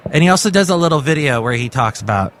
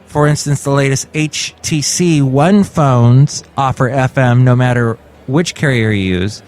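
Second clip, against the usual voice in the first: measured news-article reading; read-aloud podcast news item. Acted. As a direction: read the report out to listeners.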